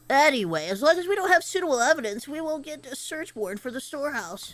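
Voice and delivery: nasal know-it-all nerd. Acted. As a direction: talk like a stuffy little nerd. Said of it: "I wanna do this nerd voice".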